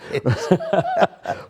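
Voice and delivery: a bright high burst of laughter; amused laugh. Real, not acted. Laughing at host's Australian accent request: high laugh. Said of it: "with an Australian accent".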